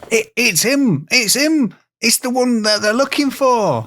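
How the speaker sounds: high, excited West Country yokel shout; a villager spotting the fugitive, broad rural accent. Acted. Podcast hosts acting villagers catching Monmouth, yokel accent. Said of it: "I don't know why they'd have that accent".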